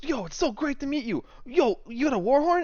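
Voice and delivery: high, loud, thrilled squeal of delight; overjoyed squeal. Acted. Shopkeeper Swain meeting the adventurers, squealing with delight. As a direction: squeal like he just met his idol. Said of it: "He goes".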